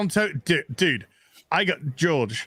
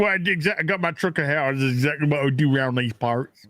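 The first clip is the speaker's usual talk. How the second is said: put-on Southern accent; 3 semitones lower, faster than usual. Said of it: "that was supposed to be a Southern accent".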